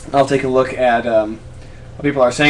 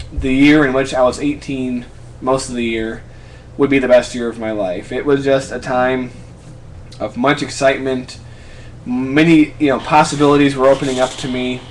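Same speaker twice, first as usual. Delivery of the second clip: ordinary talk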